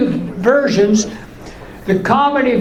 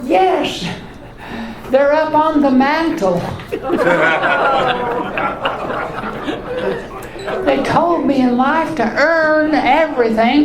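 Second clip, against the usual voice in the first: higher, deadpan joke; pitched-up voice delivering the punchline; answering the caller in a higher voice; 4 semitones higher than usual. Retold or imitated. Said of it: "I'll say".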